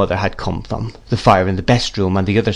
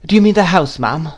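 higher-pitched, polite questioning voice; timid mother; 7 semitones higher than usual. A narrator's reading. Mother to Miss Betsy, timidly asking. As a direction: ask it meekly, pitched up.

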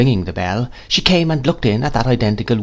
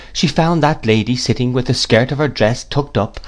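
ordinary delivery

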